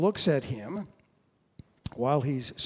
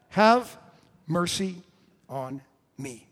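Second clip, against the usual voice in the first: yell dying away; 3 semitones higher, 4 dB louder, slower than usual. Acted. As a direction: start shouting, let it fall away word by word. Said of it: "yells at the top of his lungs".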